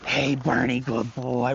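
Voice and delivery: excited greeting. Shown as a demonstration. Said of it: "But if I go".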